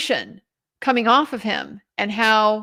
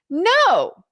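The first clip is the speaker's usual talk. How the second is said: higher-pitched, emphatic quoted "no"; emphatic retold denial; 7 semitones higher than usual. Retelling a suspect asked if he's Bridge Guy, emphatic. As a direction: imitate his firm, affronted denial. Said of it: "He is emphatic".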